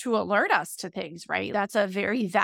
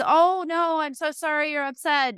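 soothing a scared dog; 5 semitones higher than usual. Retold or imitated. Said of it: "my response was".

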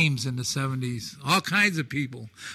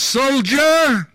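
loud, higher shouted call; commandant's bark; 9 semitones higher, 9 dB louder than usual. Retold or imitated. Commandant calling the storyteller out in front of the troops, loud bark. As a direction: snap it like a drill command.

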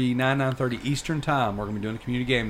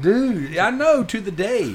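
high, loud, worked-up agreement; exasperated agreement; 10 semitones higher, 6 dB louder, slower than usual. Real, not acted. Excited agreement over repeated disaster.

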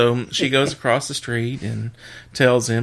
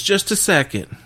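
higher-pitched wife's quick aside; mock stalling; 7 semitones higher than usual. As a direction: lightly imitate the wife putting him on hold. Wife stalls customer in joke.

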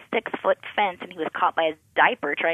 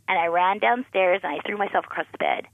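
ordinary talk, nothing marked

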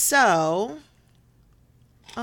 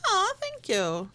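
plaintive; 12 semitones higher, slower than usual. Pretend. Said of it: "Did I sound so pitiful".

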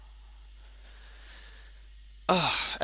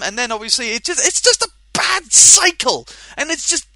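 angry rant; 3 semitones higher, 3 dB louder than usual. Real, not acted.

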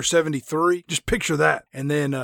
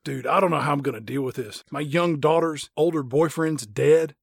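softer, dazed moping; mock grief; 3 dB quieter than usual. Tom Cruise mourning his son, understated mock grief. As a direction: play a half-hearted shell-shocked dad.

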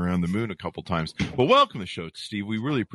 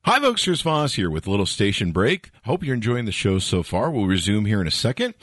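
announcer; 3 dB louder than usual. Acted. Station break announcement.

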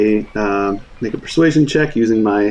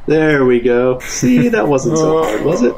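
high, sing-song reassurance; coaxing; 3 semitones higher, slower than usual. Acted. Character coaxes frightened Shaba aboard, cooing reassurance. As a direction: coax like soothing a nervous child.

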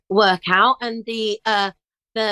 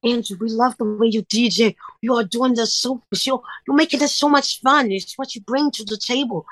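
put-on Dutch accent, animated; bad Dutch accent. Label praising her DJing, badly imitated Dutch accent. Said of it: "this is my bad Dutch accent".

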